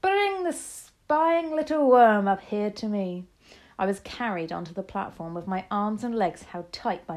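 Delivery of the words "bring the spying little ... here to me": high, loud, drawn-out witch's order; shouted command. A narrator's reading. Grand High Witch demanding the spying boy, shouted command. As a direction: shout it slowly with relished contempt. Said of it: "shouted the Grand High Witch".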